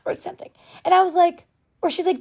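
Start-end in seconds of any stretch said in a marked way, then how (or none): 0.1-0.5 hushed confessional whisper. Real, not acted. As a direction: whisper it like a secret. Confessional aside about ADHD.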